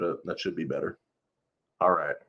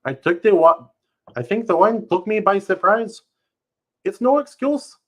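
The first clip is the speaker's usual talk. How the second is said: much higher, loud, overdone sorry; hammed-up apology; 13 semitones higher, 8 dB louder than usual. Young man apologising to Marian, hammed-up high voice. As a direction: overplay the apology for laughs.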